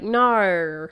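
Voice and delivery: drawn-out mock Australian no. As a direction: imitate an Australian saying no. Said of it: "Australians are like".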